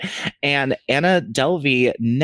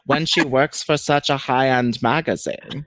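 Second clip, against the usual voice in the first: put-on Vivian's accent. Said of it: "how do you have that accent down".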